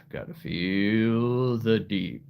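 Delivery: slow, drawn-out "Gotta feel the deep"; "deep" eased down, long and slow. Shown as a demonstration. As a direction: stretch "feel the deep" out slowly, reaching for depth. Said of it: "The deep voice".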